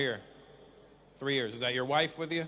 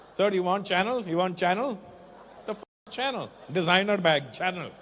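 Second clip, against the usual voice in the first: lightly voiced Indian-accented bag hawker; mock Indian seller. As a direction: pitch fakes in an Indian accent. Plays Indian seller of fake bags.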